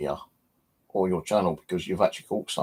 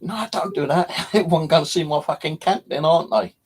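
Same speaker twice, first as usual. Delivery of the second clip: much higher, laughing through a mock protest; high laughing plea; 9 semitones higher, 5 dB louder than usual. To the landowner, begging him to spare the trees: high laughing protest. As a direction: squeal it out half-laughing, begging him not to. Pleading with landowner not to cut.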